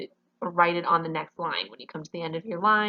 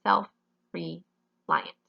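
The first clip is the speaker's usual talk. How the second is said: "self-reliant" very slowly in pieces, "self, re, liant"; wrongly divided; much slower than usual. Shown as a demonstration. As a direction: break "self-reliant" with long pauses after "self" and "re".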